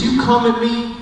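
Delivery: slow defiant boast with a laugh breaking through; David's bold declaration. Retold or imitated. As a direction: spell out the weapons slowly, then land on the Lord. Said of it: "He says".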